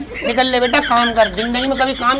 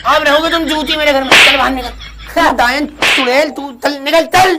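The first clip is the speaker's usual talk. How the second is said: angry eviction. Acted. Mother throws out son, bride.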